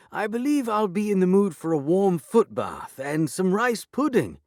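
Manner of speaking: high, loud, pompous lord calling. A narrator's reading. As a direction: call out contentedly through the door. Lord Dingley calling through door.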